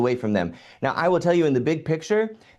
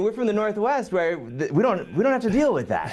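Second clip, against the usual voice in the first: laughing; 8 semitones higher than usual. Real, not acted. Joking about the accent.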